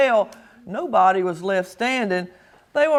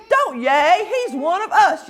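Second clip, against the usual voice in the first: yelling; 5 semitones higher than usual. Acted. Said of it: "yelled Pip".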